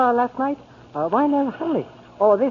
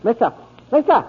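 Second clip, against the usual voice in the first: calling out; 2 semitones higher than usual. Acted. Calling to wake a sleeping drunk.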